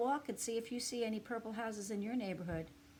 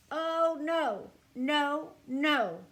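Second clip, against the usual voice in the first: higher, louder dismayed no no no; alarmed no; 8 semitones higher, 12 dB louder, much slower than usual. Acted. Mister Pine objecting to fifty purple houses, loud dismay. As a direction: protest in alarm. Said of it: "said Mister Pine".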